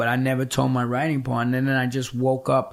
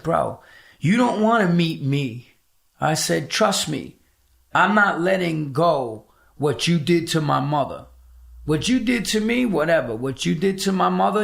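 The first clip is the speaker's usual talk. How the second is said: raised, heated voice; angry confrontation; 4 semitones higher than usual. Retold or imitated. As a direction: threaten him, voice climbing high. Confronting his father on phone.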